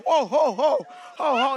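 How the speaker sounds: loud, rolling ho-hos; emphatic prompting laugh; deliberate laughter. Shown as a demonstration. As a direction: belt out a purposeful belly laugh. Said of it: "Laugh, Monica".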